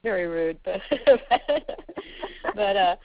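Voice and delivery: hoarse, scratchy throat. Real, not acted. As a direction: talk through a sore throat. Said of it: "I apologize for my scratchy voice".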